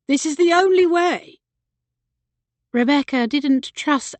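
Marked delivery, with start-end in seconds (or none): 0.1-1.4 pitched up and pushing harder; insist, voice climbing high; rising insistence. A narrator's reading. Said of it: "voice rising".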